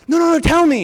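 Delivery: high, loud begging; insistent pleading. Retold or imitated. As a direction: beg to be let in on it. Younger sibling pleading to know.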